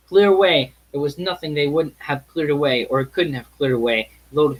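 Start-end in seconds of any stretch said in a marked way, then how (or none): 0.1-0.7 echoed cry. Acted. Narrator echoes Fezziwig's cry.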